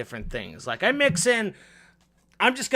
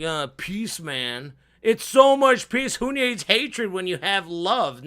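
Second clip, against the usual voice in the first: mock hippie; 3 semitones higher, slower than usual. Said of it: "try to be a hippie".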